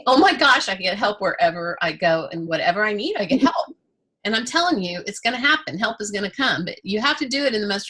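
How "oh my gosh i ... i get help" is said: mock amazed mantra. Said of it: "you're just gonna say".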